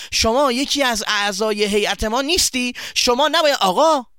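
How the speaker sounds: confronting shout across the shop; loud voice. Acted. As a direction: call him out loudly in front of everyone. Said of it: "با صدای بلند گفت".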